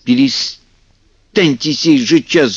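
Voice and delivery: yell, then slowly scold the pests; shouting Kuzka. A narrator's reading. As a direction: Kuzka shouting at teasing kikimoras, then slow. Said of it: "закричал на них Кузька".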